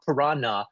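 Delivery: piranha as "pih-RAH-nuh"; common pronunciation. Shown as a demonstration. Reading the dictionary's form, piranha as "pih-RAH-nuh". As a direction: say piranha with a plain n, no y sound. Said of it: "the widespread mispronunciation".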